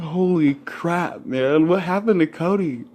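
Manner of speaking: high, slow stretched holy crap; retold shock. Seeing Cody changed, high stunned outburst. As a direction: act out being stunned. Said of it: "I was like".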